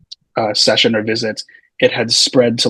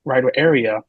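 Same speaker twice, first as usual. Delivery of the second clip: retold question, pitched up at first; puzzled questioning; 3 semitones higher than usual. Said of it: "I remember I was like".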